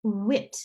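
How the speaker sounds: wit said alone as French for eight; teacher's demo of French wit; French pronunciation. Shown as a demonstration. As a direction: model "wit" as one short French word. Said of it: "the letter eight in French is wit".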